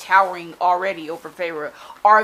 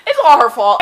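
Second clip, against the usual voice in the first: usual speaking voice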